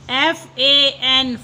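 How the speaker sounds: slow letter-by-letter spelling. Shown as a demonstration. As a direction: spell ए पी slowly, each letter apart. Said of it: "teacher spells word slowly".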